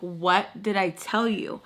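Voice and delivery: slow, weirdly insistent question; insistent repeated question. Retold or imitated. Annoyed host repeating herself to a sleepy guest, slow and insistent. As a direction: repeat it slowly, like someone fixated. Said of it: "She just keeps repeating it like a weirdo".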